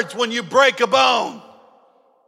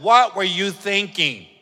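judging nurse. Retold or imitated. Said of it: "what if they stopped and said".

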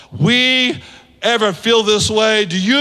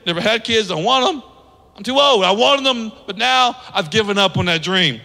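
fed-up Sarah. Acted. Sarah insists to the prophet she is past having kids, exasperated. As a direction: play Sarah refusing more kids. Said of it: "Any moms ever feel that way".

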